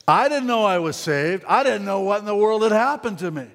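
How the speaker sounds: excited, high preacher's climax; amazed testimony. Retold or imitated. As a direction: pitch climbing in wonder. Preacher retells his amazed conversion climax.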